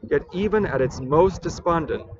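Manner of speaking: measured, deliberate poem recital; poetry reading. Acted. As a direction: read it as verse, pausing between phrases. Rereads the poem aloud.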